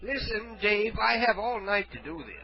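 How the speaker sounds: a hint of a feeble old caller; frail shaky old whisper. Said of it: "Well, I'm old".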